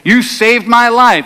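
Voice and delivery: slow, earnest thanks with the voice lifted; grateful thanks. Retold or imitated. Swimmer thanking the surfer who saved him, earnest. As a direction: pour out thanks to the one who saved you.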